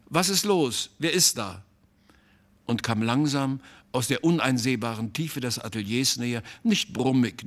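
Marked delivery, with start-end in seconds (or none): 0.1-1.6 zurückrufen. A narrator's reading. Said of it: "rief er zurück".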